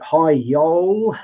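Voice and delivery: light Southern US drawl on "Hi, y'all"; a playful hint of a Southern US accent; mock Southern US accent. Host reading a viewer's greeting, light Southern US accent. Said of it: "That's my accent".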